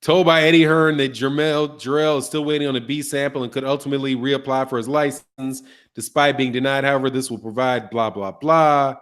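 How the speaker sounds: low, even skim-read of a report; reading aloud. Real, not acted. Host skimming a boxing report for viewers, reading aloud.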